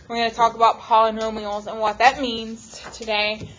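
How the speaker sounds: a sudden crack in the voice. Real, not acted. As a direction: voice cracks mid-sentence. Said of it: "Don't know why my voice cracked".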